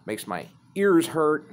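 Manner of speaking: a mildly angry retold old-man tirade; snapping dad rant. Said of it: "he just fucking snaps".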